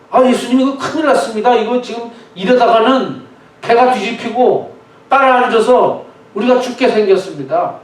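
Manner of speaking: acted disciple's frantic plea; urgent alarm. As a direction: warn him urgently that disaster is coming. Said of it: "뭐 이런 급박한 상황에".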